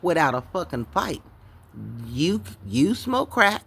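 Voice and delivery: imitating the furious baby daddy; angry boyfriend. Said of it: "this motherfucker got mad at me".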